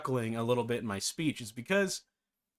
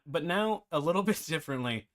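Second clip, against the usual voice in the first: laughing; 3 semitones higher than usual. Real, not acted. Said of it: "I gotta let it go".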